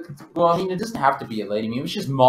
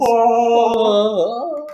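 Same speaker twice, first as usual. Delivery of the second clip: heavenly oh; 10 semitones higher, 6 dB louder than usual. Acted. Heavenly voice answers.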